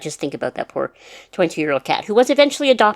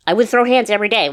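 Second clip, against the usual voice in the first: louder, higher emphatic repeat; 6 semitones higher, 4 dB louder than usual. Real, not acted.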